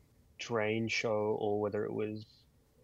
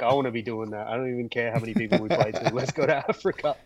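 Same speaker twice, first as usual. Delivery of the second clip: eager outburst; 6 dB louder than usual. Retold or imitated. Retold own eager outburst.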